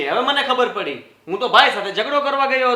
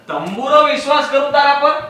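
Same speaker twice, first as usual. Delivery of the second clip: scornful, raised voice; angry retort; 4 semitones higher, 4 dB louder than usual. Acted. Husband snapping back at his wife in a quarrel. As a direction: throw it back at her in anger.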